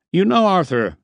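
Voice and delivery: musing, high and drawn-in address; thoughtful. A narrator's reading. Harper sizing up Arthur, thoughtful. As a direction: open as if working something out. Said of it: "he said thoughtfully".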